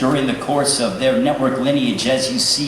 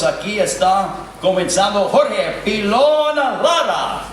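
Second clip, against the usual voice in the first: ring announcer; 2 semitones higher than usual. Acted. Ring announcer introducing a fighter.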